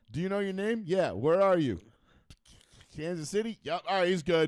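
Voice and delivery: hammed-up old-school sideline exam; mock sideline check. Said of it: "the old school concussion protocol".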